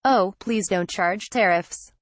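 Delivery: slow, pleading mock whine. Reporter reads Trump mocking his critics, in a slow mock whine. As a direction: drag it out like a whining critic. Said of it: "mimicking those who have expressed concern".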